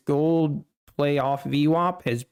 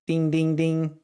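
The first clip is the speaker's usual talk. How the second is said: vocal ding sound effect; 2 semitones higher than usual. Pretend. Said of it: "I need to add a sound effect".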